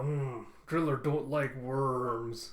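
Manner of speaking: drawn-out, displeased character voice; lightly voiced slow-witted grumbler; slow brute grumble. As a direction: drag the words out in slow displeasure. Driller voiced, displeased by worm.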